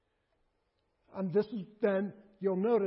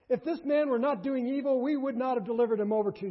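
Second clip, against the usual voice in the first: indignant leaders; 4 semitones higher, 6 dB louder, faster than usual. Acted. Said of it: "I love their answer".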